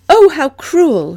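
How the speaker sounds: high, loud, drawn-out exclamation; shocked exclamation. A narrator's reading. Young woman reacts to how the rooster is treated, exclaiming. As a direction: exclaim it slowly in a high, pained voice. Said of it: "she'd exclaimed".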